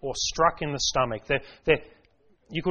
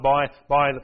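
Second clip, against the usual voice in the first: grand mock command; 4 dB louder than usual. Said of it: "didn't call on the authority of God".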